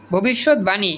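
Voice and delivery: ভবিষ্যৎবাণী as bhobishot-bani; ব sounded. Shown as a demonstration. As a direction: clear b in ভবিষ্যৎবাণী. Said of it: "এই যে ব উচ্চারিত হইছে".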